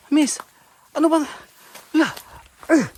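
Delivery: high loud call; shouting. Real, not acted. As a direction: shout her name. Calling out while attacked.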